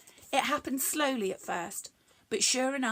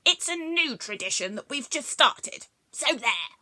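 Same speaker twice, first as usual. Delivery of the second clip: defiant; 3 semitones higher, 5 dB louder than usual. Acted. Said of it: "hands on hips".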